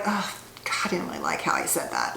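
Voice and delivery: soft, low, near-whispered regret to oneself; hushed self-catch. Acted. Speaker voicing someone pausing after a sarcastic comment, hushed self-reproach. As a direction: murmur it as a private second thought.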